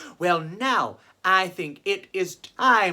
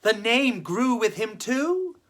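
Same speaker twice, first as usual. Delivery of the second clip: story narration; slower than usual. A narrator's reading. Reads a children's story.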